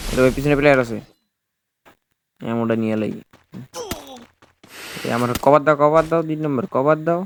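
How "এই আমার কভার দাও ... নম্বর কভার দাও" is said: urgent raised call for cover; cover me shout. Real, not acted. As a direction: call out to your teammate. Calling teammate for cover.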